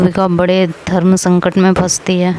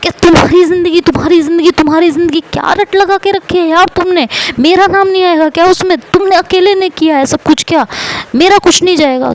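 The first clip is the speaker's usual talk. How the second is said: high-pitched, exasperated snapping back; mock her for harping on her own life; mocking angry retort; 8 semitones higher than usual. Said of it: "तो युविका कहती है". (ऊँची आवाज़ में चिढ़कर ताना)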